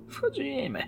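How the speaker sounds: soft, falling mutter. A narrator's reading. Policeman answering his colleague, muttering softly. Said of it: "mruknął Harvey".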